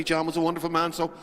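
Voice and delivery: lightly imitated Cork accent; a friend's words in a mild Cork lilt. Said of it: "That's my best Cork accent I can do".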